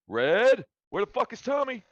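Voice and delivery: high, loud demand; angry shout. Acted. Gunman calling to Red about missing Tommy, angry shout. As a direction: yell it out at them.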